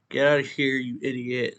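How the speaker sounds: urgent angry order. Acted. Boy shoving his friend out of harm's way, urgent angry order. Pushes him away, insulting him.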